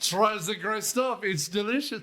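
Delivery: put-on French accent. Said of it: "he's singing in the French accent".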